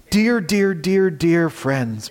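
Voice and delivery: slow, lingering dear, dear, dear, dear; tender repetition. Shown as a demonstration. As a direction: draw out each dear like a caress. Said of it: "one of the sweetest encouragements ever".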